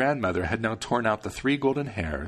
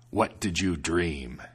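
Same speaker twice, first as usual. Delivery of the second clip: lower, slow devil; curious devil; 4 semitones lower, slower than usual. Acted. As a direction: ask grudgingly. Devil asks.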